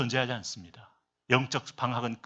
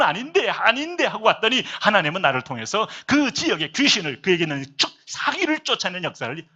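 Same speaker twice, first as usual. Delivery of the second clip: raised, emphatic preacher's retelling; animated testimony; 5 semitones higher, 5 dB louder than usual. Retold or imitated. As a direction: retell the testimony with mounting amazement. Heated retold testimony in preaching.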